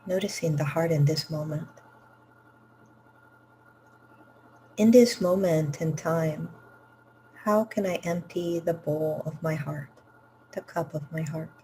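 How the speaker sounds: unhurried phrases with long pauses between; guided meditation. Real, not acted. Teacher leading students to empty the cup of the heart, guided meditation. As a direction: guide them gently inward, leaving room to breathe.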